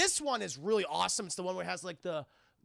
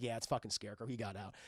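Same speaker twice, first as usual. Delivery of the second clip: much lower, softer gravelly-hero growl; mock Batman voice; 8 semitones lower, 7 dB quieter than usual. Batman telling Gordon about Scarecrow, deep and low. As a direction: drop way down like Batman.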